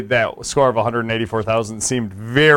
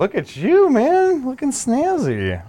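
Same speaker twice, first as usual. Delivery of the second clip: trying not to laugh; 13 semitones higher, slower than usual. Real, not acted. Teasing cohost's fresh haircut.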